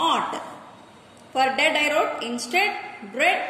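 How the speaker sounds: normal talking voice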